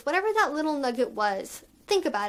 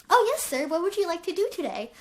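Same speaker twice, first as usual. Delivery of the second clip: put-on higher, playful and bubbly baby voice; little voice; 5 semitones higher, faster than usual. Shown as a demonstration. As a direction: ask sir sweetly in a higher, bubbly little voice. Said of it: "give you guys a little bit of a sample".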